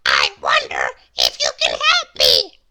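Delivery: very low, loud little man voice; Mister Small asking. Acted. Lost Mister Small asks for help, very low voice. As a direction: ask politely in a deep voice. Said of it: "he asked".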